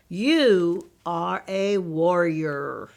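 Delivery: slow, solemn declaration; solemn father. Acted. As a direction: bestow it slowly, like a proud father. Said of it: "said Slow's father".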